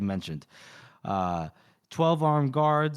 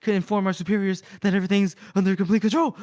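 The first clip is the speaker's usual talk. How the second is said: mock nervous plea, pitched up; higher, lightly acted fretting; panicky Malthus; 5 semitones higher, 3 dB louder, faster than usual. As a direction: imitate someone trying to mask panic. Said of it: "some panic in Mor-, in Malthus's voice".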